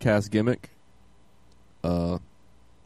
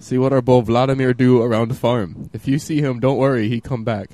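mock Russian accent; 3 semitones higher, 4 dB louder than usual. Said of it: "this may be in a Russian accent".

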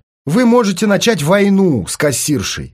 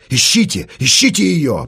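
urging on. Acted. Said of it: "подгонял Артём".

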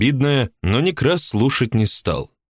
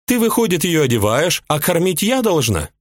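a much higher woman's voice, resentful and indignant; jealous housewife; 10 semitones higher than usual. A narrator's reading. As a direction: play the jealous mistress complaining. Ulyba voiced high.

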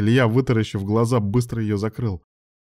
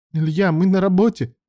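whimpering; 10 semitones higher, 4 dB louder than usual. A narrator's reading. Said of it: "проскулил Алан".

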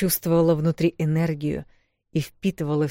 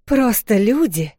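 higher, louder, slow offended retort; angry echo; 6 semitones higher, 6 dB louder, slower than usual. Acted. Вэл angrily repeating the wolf's insult. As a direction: fling his words back at him. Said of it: "рассердилась она".

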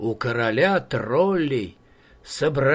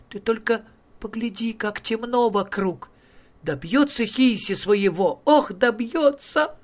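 partridge voice; 7 semitones higher than usual. Acted.

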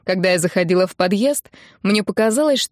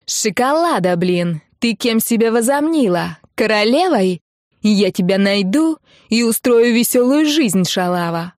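грубая угроза; 2 semitones higher, 3 dB louder than usual. Acted. Хамка угрожает по телефону.

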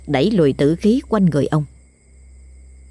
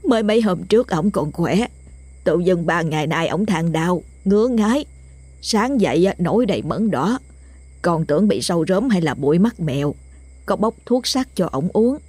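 broken telling. Acted. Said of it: "vừa kể đứt quãng".

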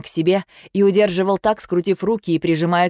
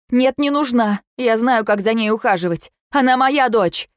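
defensive outburst; 5 semitones higher, 3 dB louder than usual. Acted. Mother defends herself in quarrel.

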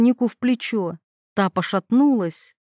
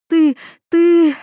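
much higher and louder, sputtering in fury; choking with rage; 7 semitones higher, 7 dB louder than usual. Acted. Veronika sputters at Mila, higher and louder, choking with rage. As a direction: gasp the words out, too furious to finish. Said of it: "задыхалась от ярости".

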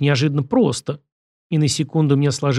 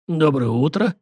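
hoarse; 2 semitones higher than usual. Acted. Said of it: "хрипло произнёс Зимин".

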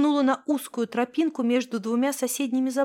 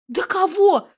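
exasperated; 5 semitones higher, 4 dB louder, slower than usual. A narrator's reading. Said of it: "всплеснула руками я".

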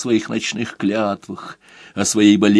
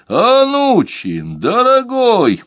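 high, loud, drawn-out call; shout down the phone; 11 semitones higher, 4 dB louder, slower than usual. Acted. Doctor shouts to Anuchin over the phone, high and loud. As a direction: call out loud over a long-distance line. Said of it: "закричал он из далёкого Ленинграда".

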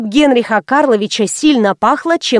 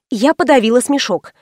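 plain reading voice

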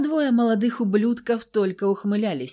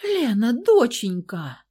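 higher, loud, slowed call to her daughter; mother rushing to her daughter on the floor; frightened mother's cry; 5 semitones higher, 7 dB louder, slower than usual. A narrator's reading. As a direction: cry out her name in alarm. Mother rushes to fallen daughter.

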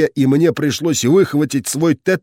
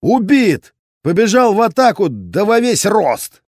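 shouted report; 7 semitones higher than usual. A narrator's reading. Shouting report over phone in battle.

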